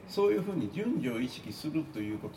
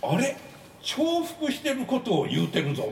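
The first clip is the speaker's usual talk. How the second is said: higher, louder, a sudden oh-no realisation; surprised discovery; 11 semitones higher, 5 dB louder than usual. Retold or imitated. Rereading his slides the next morning, startled. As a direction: catch your own mistake out loud, startled. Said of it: "みたいな".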